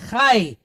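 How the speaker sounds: "Chai" with the vowel gliding from ah to ee; diphthong. Shown as a demonstration. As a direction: glide through the diphthong in "Chai". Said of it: "because of our diphthong".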